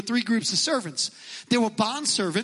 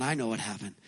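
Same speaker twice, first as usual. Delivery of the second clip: knowing Pharisees; 12 semitones lower, 6 dB quieter than usual. Retold or imitated. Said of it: "the Pharisees are going".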